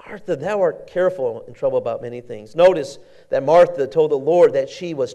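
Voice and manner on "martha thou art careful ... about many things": gentle Jesus. Acted. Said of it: "Jesus said unto her".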